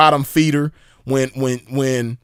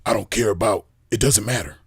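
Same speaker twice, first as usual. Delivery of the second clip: softer, lower mock of his line; mocking imitation; 5 semitones lower, 5 dB quieter than usual. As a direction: mimic the limp phrasing lightly. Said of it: "heard somebody talk like that".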